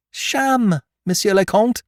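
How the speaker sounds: very high, loud exclamation; triumphant cry. A narrator's reading. Beautrelet telling the Count the statues are fake, triumphant. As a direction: announce the fraud in triumph.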